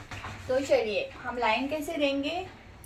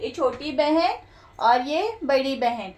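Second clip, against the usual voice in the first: put-on slow, louder sing-song for children; teaching voice; 4 dB louder than usual. Shown as a demonstration. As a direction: spell it out gently to a child. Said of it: "ऐसा सिखाना है". (बच्चे को सिखाती हुई धीमी, ज़ोरदार आवाज़)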